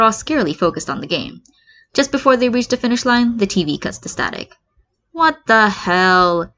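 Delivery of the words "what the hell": whine. Acted. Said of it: "Zero whines".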